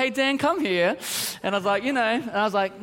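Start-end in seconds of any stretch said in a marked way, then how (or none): 0.0-1.0 calm dad call. Retold or imitated. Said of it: "he started off not too angry".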